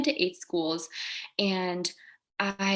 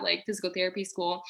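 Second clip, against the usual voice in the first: ordinary talk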